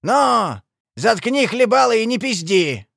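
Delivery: loud, high, forceful order; angry growl. A narrator's reading. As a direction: bellow at him to shut up. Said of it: "прорычал Лиса".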